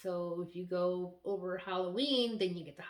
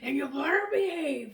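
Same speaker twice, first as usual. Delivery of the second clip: mock stern; 7 semitones higher, 7 dB louder than usual. Mock warning to husband.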